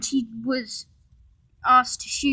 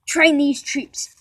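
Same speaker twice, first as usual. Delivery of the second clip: slow order; 4 semitones higher, 9 dB louder, slower than usual. A narrator's reading. Boss giving an order.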